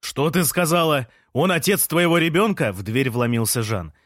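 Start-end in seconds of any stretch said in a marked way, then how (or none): 0.0-2.7 higher-pitched, shocked questioning; outraged demand. A narrator's reading. Жан bursts in on pregnant Лея, outraged. Jealous man bursts in on her.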